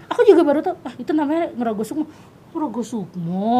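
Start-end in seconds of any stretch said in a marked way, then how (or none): 2.5-3.5 slow, questioning repeat of the term; puzzled echo. Retold or imitated. Woman recalling her reply to people naming it, puzzled echo. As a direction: echo it slowly, not understanding. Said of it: "aku juga nggak ngerti kan".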